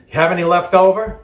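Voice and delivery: cute cooking show host. Retold or imitated. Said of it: "what they say in the cooking shows to be cute".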